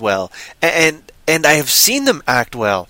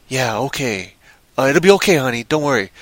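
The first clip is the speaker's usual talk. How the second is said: mock reassurance; 4 semitones lower than usual. Man comforts honey in the film, understated mock reassurance. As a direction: soothe half-heartedly, imitating a film hero.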